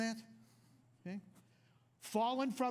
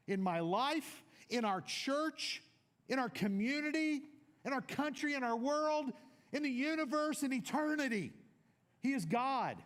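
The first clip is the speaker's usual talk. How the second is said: building preaching; 4 semitones higher than usual. Real, not acted. Building declaration list.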